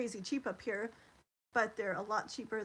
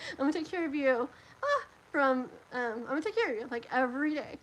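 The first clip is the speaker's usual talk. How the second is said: teary retelling; 3 semitones higher, 5 dB louder, faster than usual. Retold or imitated. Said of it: "I'm gonna cry".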